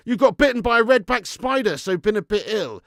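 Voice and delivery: high, loud, startled read-out; shocked reading. Real, not acted. First reading, shocked at spider bite.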